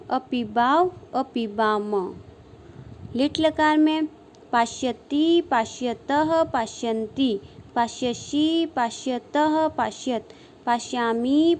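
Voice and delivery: sing-song drill reciting verb forms; rhythmic paradigm recitation. Shown as a demonstration. Sanskrit teacher drilling students on verb forms, rhythmic sing-song recitation. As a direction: chant each form in sets of three, rising then falling.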